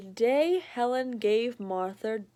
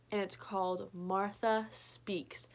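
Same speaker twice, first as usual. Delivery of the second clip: soft whisper; hushed book title; 2 semitones lower, 6 dB quieter than usual. Real, not acted. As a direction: breathe the title like a secret.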